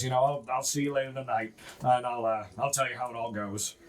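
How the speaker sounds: lightly voiced low, weary dwarf; a hint of a gruff, frazzled dwarf. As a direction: grumble like a tired overworked dwarf. Gruff guy.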